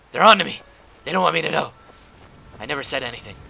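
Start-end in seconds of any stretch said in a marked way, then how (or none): 0.1-1.7 hammed-up conspiracy yell, louder; joking paranoid shout; mock paranoid outcry. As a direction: cry out like they're after you.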